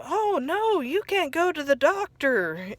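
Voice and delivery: high, breathy-free cartoon Patrick voice, lightly voiced; a goofy friend talking him out of it, high-pitched; Patrick imitated. Patrick persuading SpongeBob, retold.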